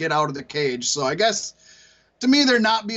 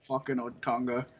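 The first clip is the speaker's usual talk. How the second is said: mock hillbilly accent; 8 semitones lower, 9 dB quieter than usual. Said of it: "I gave him a hillbilly accent".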